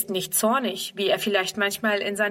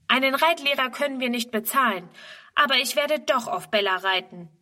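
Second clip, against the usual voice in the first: defiant; 4 semitones higher than usual. Acted. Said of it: "erwidert Friedrun trotzig".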